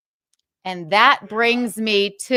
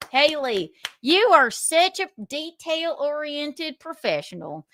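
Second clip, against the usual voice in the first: sarcastic praise; 6 semitones higher than usual. Real, not acted. Mock praise after being doxed.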